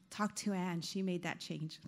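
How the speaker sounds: deadpan blame, jokingly; teasing joke. Real, not acted. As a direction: pass the buck with a wink. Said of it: "I'm just kidding".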